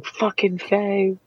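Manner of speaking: rising into a high, slow rant; screaming. Acted. Sabina in the fight, high rising mock scream. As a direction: scream curses at the Fae. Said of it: "I'm standing there screaming".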